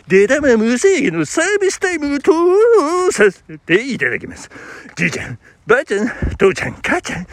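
ultra polite singsong store announcement; pachinko hall announcement. Shown as a demonstration. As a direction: chant it like a pachinko parlor mic. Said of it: "ホールアナウンス".

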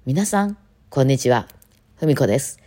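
slow, over-formal recital introduction; mock the polished concert host; lightly hammed-up politeness for an audience; stilted stage greeting. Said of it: "なんであんな喋り方するんですかね".

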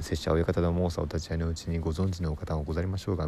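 fast rote tongue-twister patter; rapid recitation. Shown as a demonstration. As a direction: rattle it off from memory. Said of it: "めちゃめちゃ長い早口言葉みたいなやつ". (暗唱の早口言葉をすらすらと)

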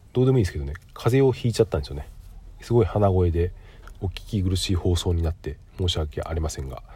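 stuffy nose from a cold; talking through a blocked nose; nasal voice. Real, not acted.

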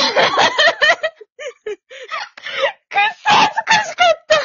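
high, loud laughing; stifled giggles. Real, not acted. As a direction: squeal through laughter. Bursts out laughing at embarrassment.

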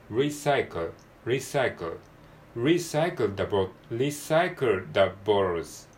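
Recycle with R first and L at the end; alternating R and L. Shown as a demonstration. Teacher drilling R then L in recycle, slow and careful. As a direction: slowly sound both R and L in recycle. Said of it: "アールとエルが交互に出てきます".

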